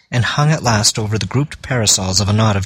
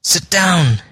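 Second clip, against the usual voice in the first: alarmed; 8 semitones higher than usual. A narrator's reading. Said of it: "Gibbon's voice in infinite alarm".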